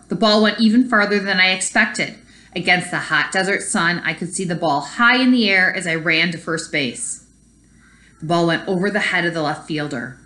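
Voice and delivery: put-on reading a story aloud to kids; story narration. A narrator's reading. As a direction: tell it like a read-aloud storybook. Teacher reads picture book aloud.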